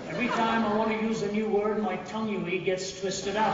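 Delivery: rising, excited protest; worked-up complaint. Retold or imitated. Learner complaining to his friend, excited and loud. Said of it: "Okay, okay, let's not argue".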